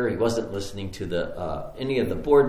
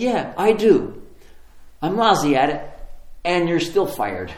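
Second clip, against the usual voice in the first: defiant admission, then firm dismissal; emphatic retort; 5 semitones higher, 5 dB louder than usual. Retold or imitated. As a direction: land the verdict firmly.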